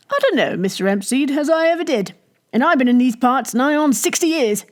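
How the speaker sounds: a hint of a stubborn country innkeeper; old innkeeper. Narrator voices Jellyband.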